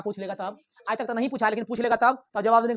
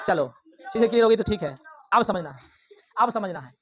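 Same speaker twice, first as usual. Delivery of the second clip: calling out; 3 semitones lower than usual. Real, not acted. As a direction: call it out across the classroom. Teacher calls out to class. (कक्षा को ज़ोर से पुकारना)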